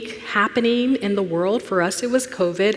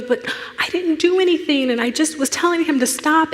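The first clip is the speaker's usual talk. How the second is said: put-on child protesting; 8 semitones higher than usual. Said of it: "he goes".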